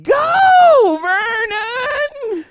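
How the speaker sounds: high loud cheer from the bleachers; mom yelling. Retold or imitated. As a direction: yell it out like a mom at the game. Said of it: "you'd hear my mom go".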